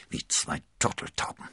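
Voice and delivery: understated, breathy grim thought. A narrator's reading. Jealous D'Artagnan watching the couple walk off, grim. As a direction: think it bitterly to yourself. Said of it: "dachte er grimmig".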